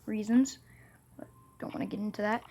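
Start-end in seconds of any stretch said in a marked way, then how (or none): 1.6-2.4 whispering. Real, not acted. Secretive aside to viewers.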